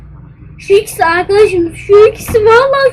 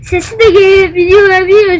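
talking while chewing gum. Real, not acted. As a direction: speak around a wad of gum. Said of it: "Şimdi biraz sakız çiğniyorum".

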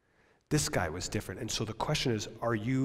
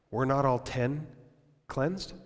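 sadness; slower than usual. Acted. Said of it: "you could almost hear the sadness in his voice".

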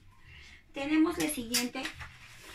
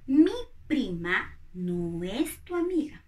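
negative example. Shown as a demonstration.

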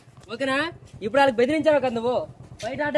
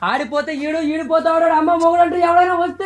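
punch dialogue; 2 semitones higher than usual. Shown as a demonstration. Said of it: "ఇంకో dialogue ఏంటి".

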